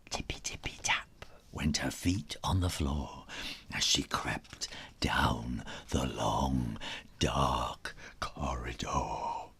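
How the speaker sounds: whispered storytelling, creeping along; suspense whisper. A narrator's reading. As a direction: tiptoe through the words in a whisper. Sneaking scene told whispering.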